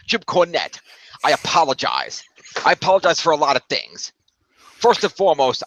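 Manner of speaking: lightly put-on New York accent; mock-earnest apology in a New York accent; Vince Russo. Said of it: "That's basically Vince Russo's accent".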